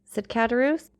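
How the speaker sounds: measured storytelling read with character voices; audiobook narration. A narrator's reading. Vlogger reading Dumas chapter to her audience, steady narration. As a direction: read the classic chapter aloud to listeners. Reads novel aloud.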